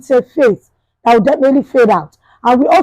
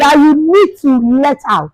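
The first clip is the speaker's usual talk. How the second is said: motivational speaker; 2 semitones higher, slower than usual. Shown as a demonstration. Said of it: "I want to be speaking like a motivational speaker".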